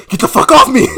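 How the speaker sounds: high, loud retold outburst; hammed-up angry shout; snapping in anger. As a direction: act out a furious snap at someone grabbing you. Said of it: "he snaps and says".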